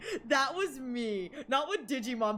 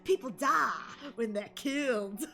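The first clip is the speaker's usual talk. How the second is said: slow, weighty delivery of the famous line; mock dramatic line read; 2 semitones lower than usual. Shown as a demonstration. Quoting the anime to chat, mock dramatic. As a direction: say it like a grave anime hero. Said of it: "But that's the actual line".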